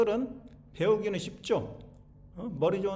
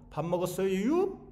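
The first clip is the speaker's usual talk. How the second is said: Chungcheong dialect. Retold or imitated. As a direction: imitate a Chungcheong local tagging 유 on the end. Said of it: "밥 먹었어요라고 안 하고".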